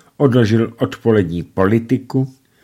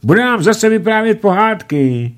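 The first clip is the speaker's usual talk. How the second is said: put-on much higher, louder, thrilled child; delighted; 13 semitones higher, 6 dB louder than usual. A narrator's reading. Dagobert greets uncle Dimitrij, delighted high cry. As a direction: squeal with delight.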